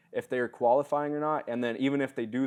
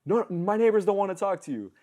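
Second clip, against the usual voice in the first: much higher, dismissive warning; grumpy homeowner chasing a door-to-door salesman, hostile; hostile neighbor; 9 semitones higher, 4 dB louder than usual. Retold or imitated. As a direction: shoo the salesman off, pitched way up. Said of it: "This same guy comes walking out".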